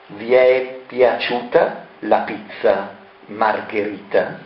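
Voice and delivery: slow, strange sinister voice; sinister taunt. Acted. Variconi's final mocking question to the poisoned guests. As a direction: ask it slowly, mocking.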